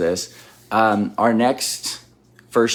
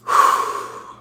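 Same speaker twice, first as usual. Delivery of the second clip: long breathy exhale. Shown as a demonstration. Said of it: "just breathe into it".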